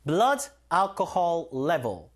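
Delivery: blood alcohol level, very slow, stress on blood; slow demo. Shown as a demonstration. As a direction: drag it out for learners. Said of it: "level 붙이든가 content 붙이면 됩니다".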